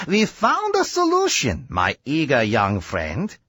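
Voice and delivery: a hint of a confident inventor; Doc Sam's voice. Doctor tells his friend to help move the machine, lightly voiced. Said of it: "So he said to me".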